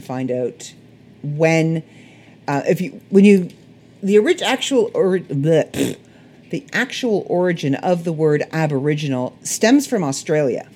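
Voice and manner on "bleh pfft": "bleh" and a blown raspberry; tongue-tied splutter. Real, not acted. Podcaster fumbling a word origin, spluttering at herself. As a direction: splutter after tripping over your words.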